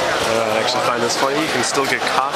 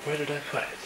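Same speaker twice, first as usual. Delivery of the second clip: muttering to himself; 5 semitones higher, 13 dB quieter, faster than usual. Real, not acted. Searching quietly for the lost book.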